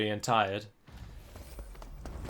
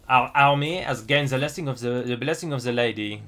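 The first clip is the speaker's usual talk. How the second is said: hammed-up French accent, "the" as "ze"; lightly mocked French accent; poor French accent. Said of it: "invoking a poor French accent constantly".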